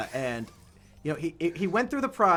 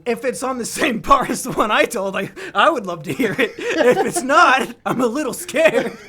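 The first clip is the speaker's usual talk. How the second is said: laughing; 7 semitones higher, 7 dB louder than usual. Real, not acted. Laughing while teasing friend.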